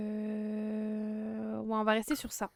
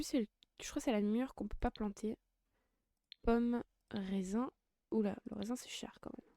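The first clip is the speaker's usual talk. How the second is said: whispering; 5 dB quieter than usual. Real, not acted. Quiet murmur while shopping.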